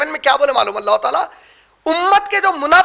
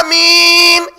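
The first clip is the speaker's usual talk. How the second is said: firm amen; 4 dB louder, much slower than usual. Shown as a demonstration. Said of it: "چیخ کے بولو نہیں بولے".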